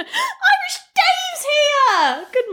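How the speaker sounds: high, slow sing-song call. Real, not acted. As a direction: stretch the name out in greeting. Calling out greeting.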